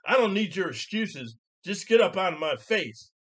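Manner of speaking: high, loud mock outburst; imitating her yell. Lady rejecting the man's excuses, imitated angry yell. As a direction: cut him off as the furious lady. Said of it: "this is what she yells to me".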